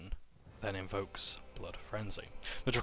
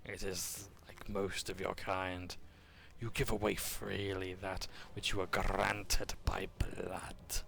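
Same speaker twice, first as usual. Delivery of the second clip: slow, breathless threatening whisper; menacing whisper; 3 dB quieter, slower than usual. Acted. Draconian sorcerer promising to teach Tak a lesson, whispered slowly. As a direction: lean in and threaten in a hushed voice.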